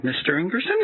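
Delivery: mock politeness, cracking up midway; scripted support agent. Retelling the agent's restart instructions, high and laughing.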